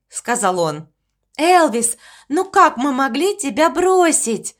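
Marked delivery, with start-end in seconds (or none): 1.4-4.5 exclaiming. Acted. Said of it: "воскликнула овечка".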